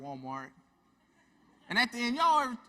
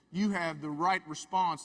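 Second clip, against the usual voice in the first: reassuring; 4 dB louder, slower than usual. Retold or imitated. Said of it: "I said".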